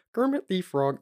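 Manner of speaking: lightly voiced Kermit; Kermit impression. Shown as a demonstration. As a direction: attempt Kermit the Frog, not quite there. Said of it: "that's my Kermit impression".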